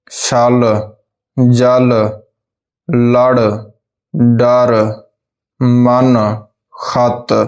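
each word spoken alone and distinctly for pupils; ਸਾਫ਼ ਉਚਾਰਨ ਨਾਲ ਸ਼ਬਦ ਬੋਲੋ; careful word drill. Shown as a demonstration. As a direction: say ਗਲ and ਰਸ cleanly, one word at a time with pauses. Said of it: "ਮੁਕਤੇ ਵਾਲੇ ਦੋ ਅੱਖਰੇ ਸ਼ਬਦ".

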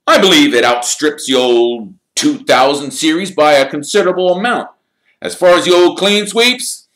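sly, breathy taunting whisper; nasty gloating half-whisper. A narrator's reading. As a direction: hiss it smugly at the rivals. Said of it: "he smiled nastily".

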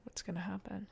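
very soft fearful whisper; anxious whisper. Real, not acted. Player dreads what comes next, anxious whisper. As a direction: breathe the question in dread.

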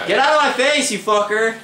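high, heated shout; angry yell. Real, not acted. Gamer yelling at an enemy player, angry shout. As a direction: shove the words at the enemy in your face.

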